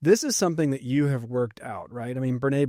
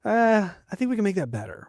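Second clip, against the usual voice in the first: gently hesitant, higher-pitched offer; tactful, higher-voiced nudge; kind, loving suggestion; 7 semitones higher than usual. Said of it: "in kindness and in love, say".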